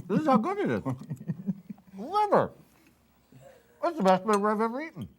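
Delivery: gushing with delight; high, fast rave about the liver; excited. Real, not acted. Tasting liver on camera.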